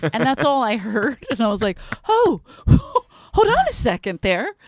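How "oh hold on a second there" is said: high, laughing plea to back off; retold alarmed intervention. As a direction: urgently talk a friend down, half laughing. Acting out calming a fighting friend.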